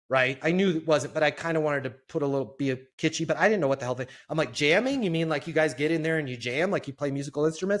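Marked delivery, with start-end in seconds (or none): 4.5-7.8 much higher, louder, mock-naive question; mock naive surprise. New guy playing dumb to the client, much higher mock surprise. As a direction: play dumb and act amazed.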